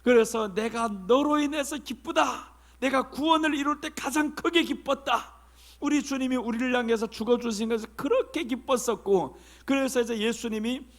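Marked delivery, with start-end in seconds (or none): 0.5-5.3 God's voice. Acted. Preacher voices God's joy. (기뻐하시는 하나님 목소리로 천천히)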